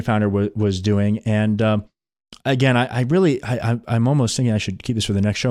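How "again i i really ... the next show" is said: tired, worn-out voice; voice giving out. Real, not acted. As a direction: voice giving out, strained. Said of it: "My voice is giving out here".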